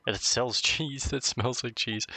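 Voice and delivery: laughing through the slip; amused laugh. Real, not acted. Player fixing a misread game line, amused laugh.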